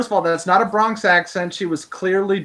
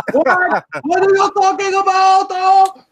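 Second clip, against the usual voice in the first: much higher, louder confused yelling; loud mock yell over drum and bass; shouting over music; 14 semitones higher, 5 dB louder, slower than usual. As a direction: shout like you can't hear over headphones. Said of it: "Doing the Ukrainian accent is really easy".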